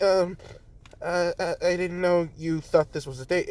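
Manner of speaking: a touch of blushing awkwardness; flustered. Acted. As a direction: stammer it out, caught off guard. Flustered character after blushing.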